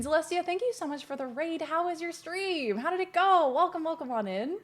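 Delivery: high, soft thank-you; sweet welcome. Real, not acted. Streamer thanking Celestia for the raid, high and sweet. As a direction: thank them in a high, softened greeting voice.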